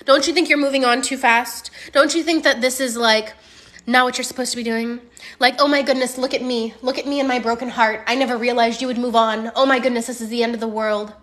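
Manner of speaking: mildly dramatic mock begging; begging lover. Coach voices client's ex begging her back, mock pleading. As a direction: plead like a dumped man, a little hammed-up. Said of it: "begging and being like".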